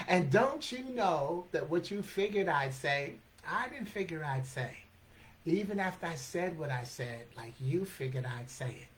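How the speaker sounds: measured, phrase-by-phrase verse; slow motion. Shown as a demonstration. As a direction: take the tangled line apart slowly, easing down at the end. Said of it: "And in slow motion".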